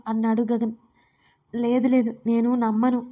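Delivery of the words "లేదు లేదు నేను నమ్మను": ordinary delivery, nothing marked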